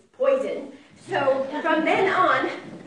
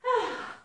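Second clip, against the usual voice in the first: relieved sigh; 9 semitones higher than usual. Acted. Mouse safe under the sagebrush, sighing out. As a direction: let the breath out after a run.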